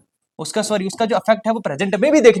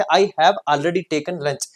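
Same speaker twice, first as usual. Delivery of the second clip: slow dictation; much slower than usual. Shown as a demonstration. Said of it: "teacher dictates example slowly".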